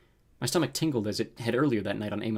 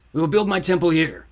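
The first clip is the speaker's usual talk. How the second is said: loud, raised, imperious delivery; fiery villain lord; 7 semitones higher, 9 dB louder than usual. A narrator's reading. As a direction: pronounce it like a dark overlord. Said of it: "the fiery man said".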